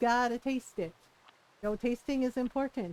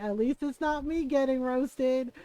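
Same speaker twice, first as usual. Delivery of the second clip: slow words broken by laughter; laughing it out. Retold or imitated. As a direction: say it through giggles. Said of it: "I was laughing".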